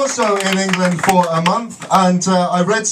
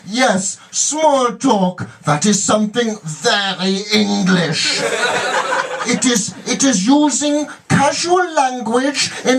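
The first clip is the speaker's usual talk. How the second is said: German presenter; 3 semitones higher, slower than usual. Retold or imitated. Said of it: "saying to all the other Germans in the room".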